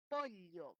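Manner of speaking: "pollo" with the ll as a lateral ly; "pollo" said as "polyo". Retold or imitated. Teacher repeating the ly "pollo" for students. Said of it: "con la L".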